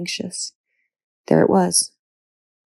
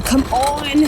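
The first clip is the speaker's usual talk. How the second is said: desperate cry; 8 semitones higher than usual. Acted. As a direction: beg it to give way. Urging door to break.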